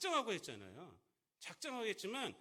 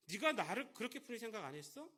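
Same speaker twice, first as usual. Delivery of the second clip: rebuking master; 4 semitones higher, 4 dB louder than usual. Retold or imitated. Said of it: "이렇게 책망하십니다".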